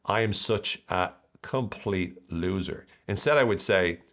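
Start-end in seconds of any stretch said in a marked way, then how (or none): 0.0-2.9 slow self-pity. Shown as a demonstration. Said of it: "instead of me saying".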